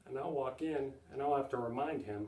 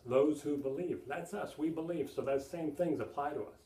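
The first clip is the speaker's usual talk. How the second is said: rising fervour; 3 semitones higher than usual. Acted. Preacher applying scripture to congregation.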